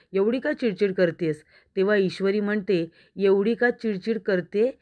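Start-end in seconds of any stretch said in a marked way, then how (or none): 0.1-1.4 mildly fed-up question, falling away; exasperated question. Retold or imitated. Arnav asking Ishwari about her irritability, mildly exasperated. 3.2-4.7 slow, mock-indignant echo, rising at the end. Ishwari repeating Arnav's question back, mildly indignant.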